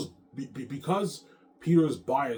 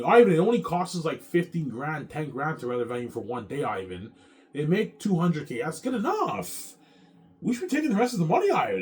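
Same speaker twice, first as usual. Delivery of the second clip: imitating Peter pleading; 6 semitones higher, 6 dB louder than usual. Narrator mimics Peter arguing the venue cut, high and whiny. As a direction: stretch it out like a greedy partner begging. Voicing Peter demanding more.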